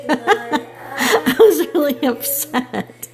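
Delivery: slow, laughing through the words. Real, not acted. Laughing while telling a friend she was upset. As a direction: giggle it out, amused at yourself. Laughing at her own fuss.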